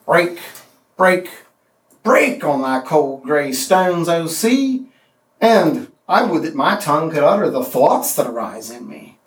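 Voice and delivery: heavy, deliberate recitation; poem reading. Shown as a demonstration. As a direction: read Tennyson, hammering the three breaks. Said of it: "Here's the Molossus".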